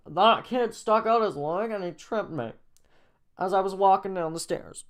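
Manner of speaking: put-on high, loud upset kid voice; upset boy. A narrator's reading. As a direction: complain about being tripped. Hurt boy tells what happened.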